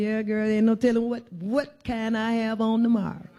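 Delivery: put-on breezy, playful girlfriend tone; light joking reply. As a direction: laugh it off with a friend. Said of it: "I choose to laugh and say".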